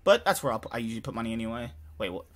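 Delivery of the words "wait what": usual speaking voice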